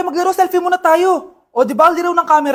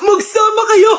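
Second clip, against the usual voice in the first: angry shout; 4 semitones higher than usual. Acted. Betrayed wife shouting at cheaters.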